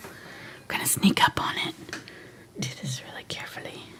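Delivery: very quiet, barely voiced, hushed whisper. Speaker carefully building up color at the edges, whispering. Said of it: "I'm whispering now".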